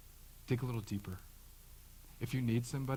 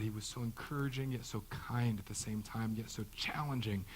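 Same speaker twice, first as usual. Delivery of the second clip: tender wife; 4 dB quieter than usual. Retold or imitated. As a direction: speak softly of a beloved husband. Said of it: "whose wives at the end of their lives say".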